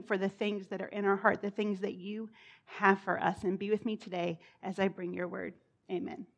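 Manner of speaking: soft, earnest prayer voice; opening prayer. Real, not acted. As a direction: pray quietly before the church. Pastor leads an opening prayer.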